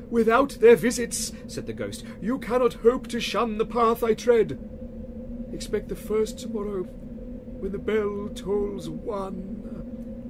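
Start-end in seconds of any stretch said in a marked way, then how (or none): 0.1-1.3 wailing ghost. Acted. 2.2-10.3 high, slow, loud moaning spectre; wailing ghost. Acted. Marley's ghost wails at Scrooge, slow and loud.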